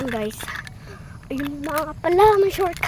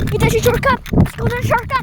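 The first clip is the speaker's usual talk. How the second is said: high and loud, thrilled; excited; 8 semitones higher, 5 dB louder than usual. Real, not acted. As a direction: cheer the shortcut on. Spotting the shortcut.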